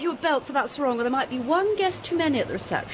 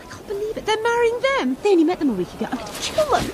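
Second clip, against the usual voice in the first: outraged; 4 semitones higher, faster than usual. Acted. Jilted woman rages at exes.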